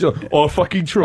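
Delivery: broad Australian "try"; Australian accent. Shown as a demonstration. Australian correcting the host, broad Australian accent. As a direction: exaggerate your Australian vowels. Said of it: "that's more English".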